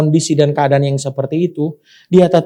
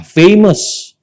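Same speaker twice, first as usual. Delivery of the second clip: famous said high; 9 semitones higher than usual. Shown as a demonstration. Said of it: "Katakan sama-sama".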